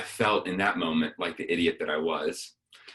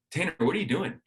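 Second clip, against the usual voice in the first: calling out; 8 semitones higher, faster than usual. Retold or imitated. Calling down to friend on stairs.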